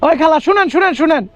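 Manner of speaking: calling after the auntie as she walks away. Real, not acted. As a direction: call her back from a distance. Calls after the departing old woman.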